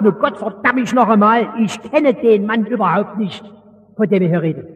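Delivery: leicht angedeuteter rauer Fischer, fluchend; rüder Fischerton. Retold or imitated. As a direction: den ruppigen Galiläer nur andeuten. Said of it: "in den rüden Ton eines galiläischen Fischers". (Petrus verleugnet Jesus im groben Fischerton, leicht angedeutet)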